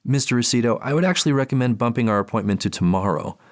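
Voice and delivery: polite clinical therapist. Acted. Therapist on the phone.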